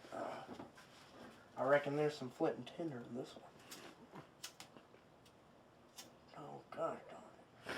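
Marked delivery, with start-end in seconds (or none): 1.6-7.7 low, fast muttered con man voice; lightly voiced King. King hunting for flint, low fast grumble. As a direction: grumble like an old swindler. Player voicing King in game.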